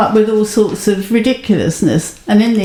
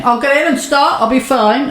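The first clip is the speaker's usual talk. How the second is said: manly bravado; 5 semitones higher than usual. Retold or imitated. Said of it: "you always do the manly thing".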